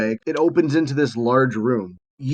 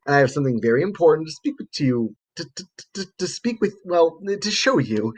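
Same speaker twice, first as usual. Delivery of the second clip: flustered stammer; 3 semitones higher than usual. Acted. Lab assistant trying to show visitors something important, flustered stammering. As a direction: trip over the words and correct yourself.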